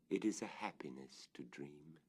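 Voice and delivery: hushed, dreamlike whisper. A narrator's reading. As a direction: let the line fall to a hush, as if dreaming aloud. Whispered echo of the previous line.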